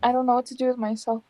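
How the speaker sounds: talking with hiccups; hiccuping between words. Real, not acted. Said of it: "I have the hiccups".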